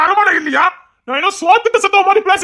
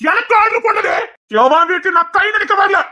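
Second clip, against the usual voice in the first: raised, furious voice, a touch higher; angry shout; 3 semitones higher than usual. Acted. Uncle shouting back at the man who ordered him, furious.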